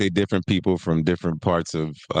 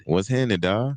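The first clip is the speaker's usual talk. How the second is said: imitated Atlanta drawled greeting; Atlanta accent; 2 semitones higher than usual. Showing how they always greet in Atlanta, Atlanta accent. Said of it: "in Atlanta, they, it's always like".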